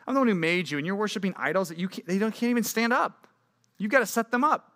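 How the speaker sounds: mock outrage, as if he can't believe it; God scolding idol worshippers in disbelief; exasperated God. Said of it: "He's like".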